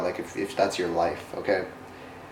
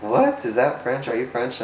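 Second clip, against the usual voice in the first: put-on surprised kids; 2 semitones higher than usual. Two kids react to a stranger's French greeting, surprised. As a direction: imitate kids caught off guard by French.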